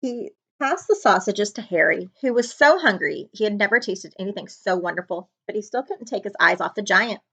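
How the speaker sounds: ordinary delivery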